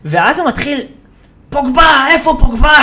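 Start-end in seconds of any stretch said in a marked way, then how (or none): 1.5-2.7 high, loud mock shout, breaking into laughter; indignant mimicked yell; imitated yelling pundit. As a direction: holler for the missing player in mock outrage. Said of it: "הוא מיד הולך לצעוק על מישהו".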